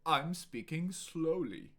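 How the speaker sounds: firm, projected delivery. Shown as a demonstration. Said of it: "I will say each sentence in a few different ways".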